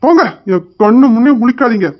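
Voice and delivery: brother angrily sending her away; angry dismissal. Acted. Brother ordering sister out, angry and sharp.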